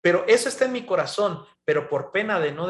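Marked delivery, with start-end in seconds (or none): 0.0-1.4 mock complaint to God. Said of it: "gritarle a Dios y decir".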